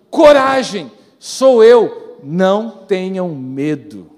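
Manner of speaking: loud, ringing declaration of courage; bold proclamation. Acted. Preacher proclaims Jesus's words to the church, loud and bold. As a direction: call it out boldly to the crowd.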